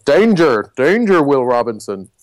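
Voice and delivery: lightly mimicked robot warning; Lost in Space robot. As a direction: sound a mock alarm like a TV robot. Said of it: "the Lost in Space robot".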